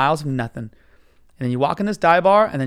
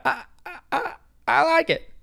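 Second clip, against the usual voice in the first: mock him with a tiny high stammer; defensive justifying voice; 12 semitones higher than usual. Passenger mocking the driver's excuse, high defensive voice. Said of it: "That's the voice he's doing".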